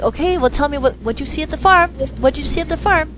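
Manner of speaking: high, nagging repeated question; pleading adult. Retold or imitated. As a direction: beg the child to answer. Begging the child.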